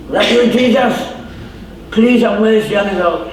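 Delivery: high, put-on calling voice; hammed-up cry for mercy; pleading blind beggar. Blind beggar begging Jesus for mercy, acted high plea.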